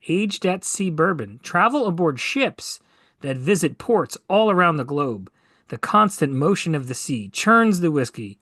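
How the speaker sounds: measured promotional read with punched key words; deliberate product-description narration; ad copy read. Real, not acted. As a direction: read it like a bourbon commercial, savoring each phrase. Reads bourbon copy from website.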